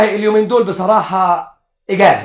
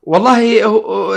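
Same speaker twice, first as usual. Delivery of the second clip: drawn out; 5 semitones higher, much slower than usual. Acted. Husband drags out answer.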